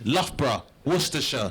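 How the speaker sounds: Loughborough as LUFF-bruh, Worcestershire as WUSS-tuh-shuh; British pronunciation. Shown as a demonstration. Comedian prepping crowd for immigration test, Loughborough as LUFF-bruh, Worcestershire as WUSS-tuh-shuh. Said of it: "How to pronounce this".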